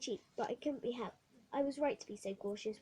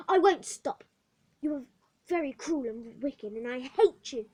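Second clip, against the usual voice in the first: loud, defiant outcry; girl crying out at the matron; cried out; 11 dB louder than usual. Acted. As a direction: fling the words at her. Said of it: "I cried".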